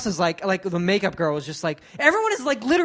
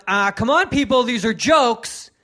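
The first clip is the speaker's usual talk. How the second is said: mock yell; 3 semitones higher, 4 dB louder, slower than usual. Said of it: "almost yelling at the crowd".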